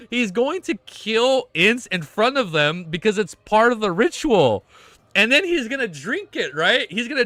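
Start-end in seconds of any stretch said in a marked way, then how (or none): 0.0-2.4 high and slow, stunned; awed. Real, not acted. Streamer gasping at the twist, slow and high. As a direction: drag it out in disbelief.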